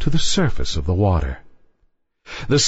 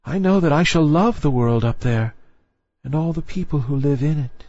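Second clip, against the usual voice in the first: put-on higher, wistful young girl's voice; young mermaid voice; 5 semitones higher than usual. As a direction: sigh it like a longing young girl. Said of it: "said she".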